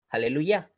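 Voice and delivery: "aleluya" with a very brief "e" after the l; short E. Shown as a demonstration. Teacher demonstrating the sheba, "aleluya" with a brief E. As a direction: keep the "e" in "aleluya" super short, ending on "ya". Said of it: "una E breve".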